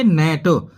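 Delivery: नेट starting straight on n; silent g. Shown as a demonstration. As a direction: say नेट with no g before the n. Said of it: "जी silent ही रहेगी".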